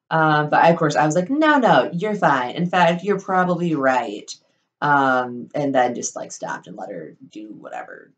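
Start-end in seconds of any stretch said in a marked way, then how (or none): 1.3-4.3 high, emphatic placating start, easing down; mock placating agreement. Speaker backing down to coworker, exaggeratedly agreeable. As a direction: jump up high, hurrying to appease.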